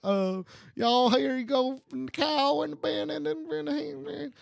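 high mock Texan gibberish; hammed-up, high-pitched Texan babble; bad Texas accent. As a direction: ramble in an overdone fake Texas twang. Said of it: "do this all in a Texas accent".

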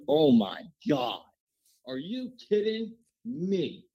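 slow disbelieving groan; exasperated. Real, not acted. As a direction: drag it out in disbelief. Retelling losing bet.

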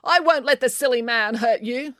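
high, soothing call; calling out reassuringly. A narrator's reading. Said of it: "called the cat lady".

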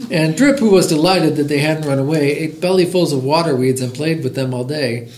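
lively, rhythmic picture-book reading; bouncy storytime narration; story read-aloud. A narrator's reading. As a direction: read a rhyming tale aloud to listeners.

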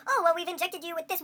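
a hint of a blithe scientist; other game character. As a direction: explain it breezily as a game character. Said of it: "all the B S science all the other characters pull".

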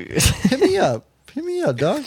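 mock calling out. Calling out to old crush.

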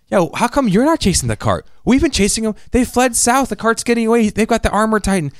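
high, pleading fake-panic Armin; fake tearful urgency. Armin fakes tears to fool Flock, high pleading. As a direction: put on crocodile tears. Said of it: "He turns the waterworks on".

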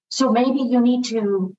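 ordinary talk, nothing marked

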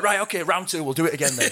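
high, brash rematch call; imitating the drunk bloke; mock cocky challenger. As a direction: push for another round. Drunk guy demands rematch.

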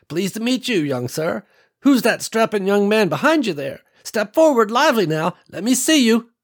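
put-on high, cheerful old matriarch welcoming guests; old farm woman welcoming strangers, cheerful and high; kindly old woman. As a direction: beam at them like a proud grandma. Old woman calls Billy forward.

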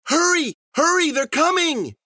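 high, frantic shouting; loud, high-pitched alarm; urgent crying out. A narrator's reading. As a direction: yell to hurry them along. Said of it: "he cried".

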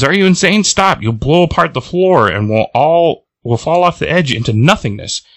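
high-pitched acted scolding; alarmed protest. Jubilee to Boom Boom blowing up the floor, acted alarm. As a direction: protest high, easing down as it goes.

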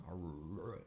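low, soft dog "arr"; imitated dog growl. Joking about a dog saying R, softly growled. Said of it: "my dog's not trying to say the word".

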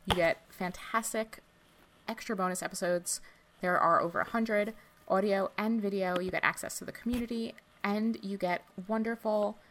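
lightly robotic read, pausing between chunks; little robot voice. Real, not acted. Host reading out the bonus episode plug, in a little robot voice. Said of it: "in a little robot voice".

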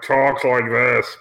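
slow, drawn-out put-on voice; lightly mimicked character voice, dragged out; imitated affected voice. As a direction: stretch each word out, mimicking her affected way of talking. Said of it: "she's doing a voice, right?".

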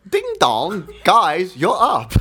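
badly faked Asian accent, sing-out announcement; fake Asian accent. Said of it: "white guy pretending to be Asian".

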